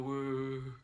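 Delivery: drawn-out "woo" for a release; imitated whoosh. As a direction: mimic a little whoosh passing through. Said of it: "any more whooshes happening".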